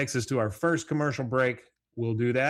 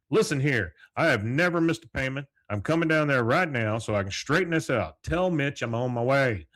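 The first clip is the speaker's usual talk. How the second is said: mildly heated, raised voice; indignant retelling; 4 semitones higher, 4 dB louder than usual. Retold or imitated. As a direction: act out an indignant customer putting his foot down. Hank disputes canceled policy on phone.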